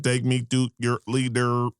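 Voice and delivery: stiff alien talk. Pretend. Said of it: "You look like".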